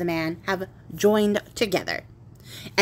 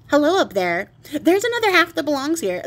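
shouting up the chimney; 6 semitones higher, 3 dB louder than usual. Acted. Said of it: "he shouts up at".

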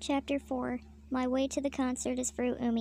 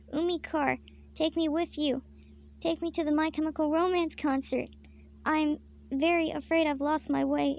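higher, mildly hammed-up plea; pleading for rescue; 4 semitones higher than usual. Lost traveler begs his car savior, mock pleading. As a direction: beg a little dramatically to be taken along.

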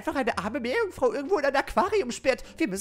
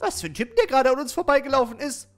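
mocking echo; 3 semitones higher, 6 dB louder than usual. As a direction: echo the question back in a louder put-on voice. Spöttische Wiederholung in anderer Stimme. (spöttisch nachäffend)

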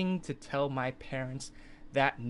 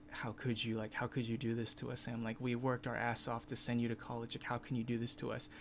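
disappointed parents; 6 dB quieter than usual. Retold or imitated. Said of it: "the really disappointed look".

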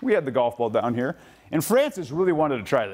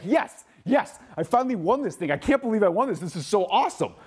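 put-on high, thrilled kid's cheer; kid's thrilled victory cheer, pitched up; excited kid; 5 semitones higher than usual. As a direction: cheer like a kid who finally won. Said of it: "and he was so excited".

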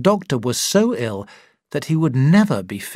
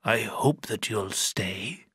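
slow, much softer and worn out; tired voice; 2 semitones lower, 8 dB quieter, slower than usual. A narrator's reading. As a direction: let it sag, slow and exhausted. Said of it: "said in a tired voice".

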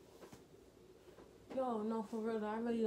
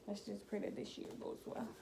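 whispered prayer; 6 dB quieter than usual. Real, not acted. Hoping the school year goes well.

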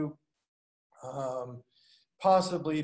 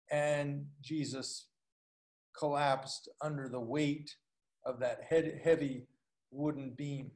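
hushed telling; 3 semitones lower, 6 dB quieter than usual. Acted. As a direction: drop the voice as he falls. Preacher describes Jesus collapsing.

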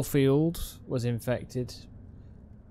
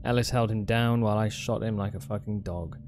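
faster, steady note reading; reading a note aloud; 4 semitones lower, much faster than usual. Acted. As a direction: read the diary note out, brisk. Reads the in-game note aloud.

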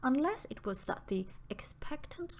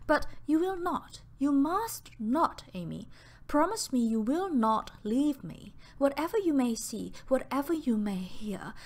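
urgent, fearful begging with rising pitch; frightened pleading; 5 semitones higher, 4 dB louder than usual. Acted. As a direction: plead in fear, voice climbing and pushing. Frightened Pearl begging her cousin.

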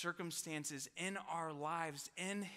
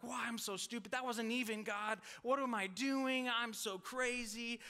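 frustrated self-rebuke; 5 semitones higher than usual. Retold or imitated. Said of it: "I'm like".

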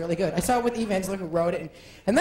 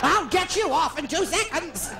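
slowed, a hint of Hepburn; lightly voiced old movie star; mock Hepburn; Katharine Hepburn. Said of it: "Katharine Hepburn".

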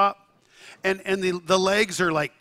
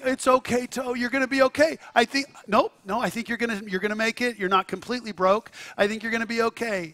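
soothing the toe; 4 semitones higher than usual. Retold or imitated. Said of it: "He started saying".

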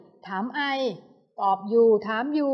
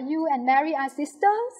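slow careful read; 5 semitones higher, much slower than usual. Shown as a demonstration. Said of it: "ไม่ต้องพยายามอ่านนะคะ".

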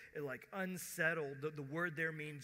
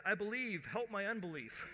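higher, raised plea; crying out; 5 semitones higher than usual. Retold or imitated. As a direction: cry it out in desperate appeal. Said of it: "cried out and said".

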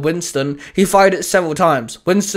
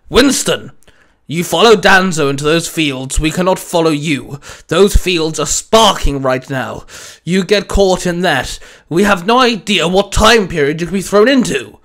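loud, urgent officer's warning; barked warning; 5 dB louder than usual. Acted. Commanding officer warns Winston off the cosmic fields, barked. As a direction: call it out with authority. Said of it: "his commanding officer barked".

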